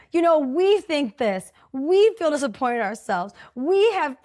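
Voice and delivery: mock manifesto shout; mock rallying declaration. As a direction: proclaim it to the crowd, hammed-up. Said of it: "I'm over here like".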